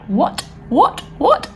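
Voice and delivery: escalating shocked whats, last one near a squeal; rising disbelief. Retold or imitated. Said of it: "I was like".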